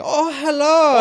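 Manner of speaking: put-on high, loud Asian accent; exaggerated Asian accent greeting. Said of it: "an Asian accent".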